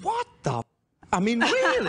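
mock German accent, hammed up. Host teasing actress in a mock German accent. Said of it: "Very good German accent".

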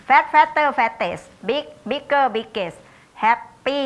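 lightly chanted classroom drill, pitch lifting; rote recitation. Shown as a demonstration. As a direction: recite it like a primary-school drill. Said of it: "เขาก็จะให้เราท่องเลย".

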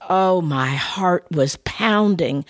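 drawn out, slow breathless recall; slow and heavy. Real, not acted. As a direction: let the words drag slowly. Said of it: "I mean, pounding".

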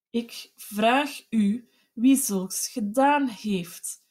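slow, every word chopped apart; each word clipped off. A narrator's reading. Husband repeating his question, each word clipped. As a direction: hammer out each word stubbornly. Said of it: "herhaalde hij luider, met een soort hardnekkigheid ieder woord afkappend".

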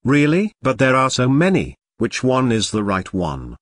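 put-on slurred tipsy girl; lightly drunk woman. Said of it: "This beauty sounds drunk".

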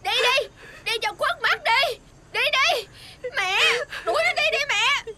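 high-pitched, insistent outburst; angry demand. Acted. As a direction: push mother hard to get rid of them. Daughter demands girl be thrown out.

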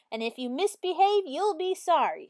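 high, loud warning; threatening Miss Swamp. A narrator's reading. Teacher threatening pupils, high and loud. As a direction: menace the class. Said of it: "said Miss Swamp".

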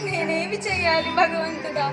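put-on anguished lament calling the fading child; despairing wail. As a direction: cry out to God in helpless grief. Pushed away, baby fading. (నిస్సహాయంగా దేవునికి మొరపెట్టుకునే విలాపం)

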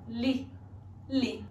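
"Li" with spread lips like a small laugh; "li" said smiling; soft model of "li". Shown as a demonstration. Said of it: "como se fosse dar uma risadinha".

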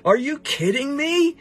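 high-pitched, scoffing big guy; amused mocking disbelief. Big guy to the little guy swinging at him, mocking disbelief. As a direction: leap up in pitch as if laughing off a puny opponent. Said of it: "the big guy's just kinda laughing".

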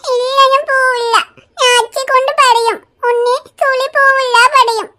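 put-on small weepy child voice, drawn out; tearful little girl. Little Riya whimpering to her aunt about school. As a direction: whine it like a toddler near tears.

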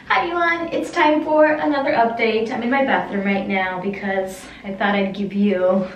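roomy echo on the voice; talking in a small tiled room; echoing bathroom. Real, not acted. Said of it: "It's a little echoey in here".

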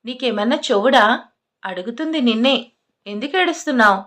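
mildly irritated questioning; a touch of impatience, demanding an answer. Acted. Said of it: "చిరాగ్గా అడిగాడు". (కాస్త చిరాగ్గా)

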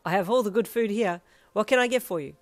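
delighted. A narrator's reading. Owner taking a food order, loudly delighted. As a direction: ask it with booming delight. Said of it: "rubbing his hands together with delight".

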